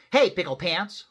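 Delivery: loud, high holler; hollering mama. A narrator's reading. Mama hollers at her running kitty boy, hollering. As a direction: call out loudly to a child. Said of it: "hollered Mama".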